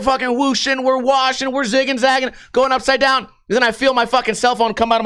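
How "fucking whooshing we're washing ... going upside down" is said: higher-pitched, breathless-style list of moves; excited ride narration. Retold or imitated. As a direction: act out the rush of the ride. Acts out the speeding coaster ride.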